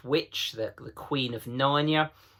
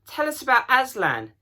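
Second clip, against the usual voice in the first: put-on much higher, excited children; chorus of thrilled children; high, breathless eagerness; eager voices; 13 semitones higher, 6 dB louder than usual. A narrator's reading. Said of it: "said several voices at once".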